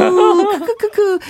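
slow, high villainous cackle; evil chuckle. Acted. Mock villain laugh after listener text.

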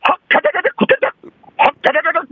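WWII German broadcast imitation. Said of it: "독일 군들이 항상 방송에서".

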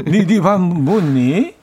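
slow, stumbling 니 밥 먹니 with added 니; awkward Seoul ni ending. Shown as a demonstration. Newcomer from Jeolla faking Seoul speech, slow and awkward. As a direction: fake Seoul speech, tripping over it. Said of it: "약간 이렇게".

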